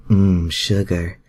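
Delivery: slow, satisfied sigh; lightly voiced contented sigh; sighing Rogue. A narrator's reading. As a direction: drawl it out contented. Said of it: "Rogue gasped out, sighing in happiness".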